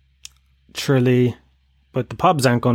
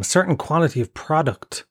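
quoting Tubridy; 4 semitones higher than usual. Retold or imitated. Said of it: "that Ryan Tubridy thing".

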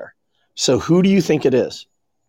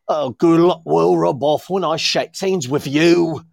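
hammed-up Dick Van Dyke Cockney; bad Cockney. Podcaster mocking an American actor's terrible film accent, bad Cockney. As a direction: pour on a bad Cockney accent, drawn out at the end. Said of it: "he's trying to pour on the coffee".

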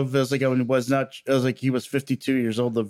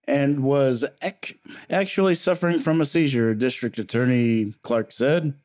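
newscaster voice. Acted. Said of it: "great newscaster voice".

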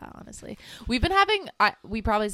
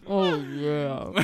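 laughing; 5 semitones lower, 5 dB louder than usual. Real, not acted. Reacting to the cookie crunch.

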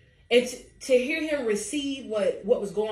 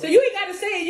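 laughing; 9 semitones higher, 7 dB louder, much faster than usual. Real, not acted.

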